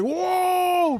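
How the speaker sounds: high sudden startled whoa. Retold or imitated. Reacting to a man falling in a crowd, startled high whoa. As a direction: yelp it out in shock. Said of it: "I was just like".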